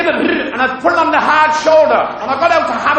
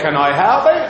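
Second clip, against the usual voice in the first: lightly voiced Norfolk old boy; a hint of a Norfolk local greeting; Norfolk accent; 6 semitones lower than usual. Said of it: "They talk like that up here in Norwich".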